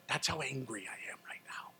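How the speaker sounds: tense whisper; hushed, controlled anger; whispered warning. Retold or imitated. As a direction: whisper it to show held-back anger. Retold telling clerk calmly.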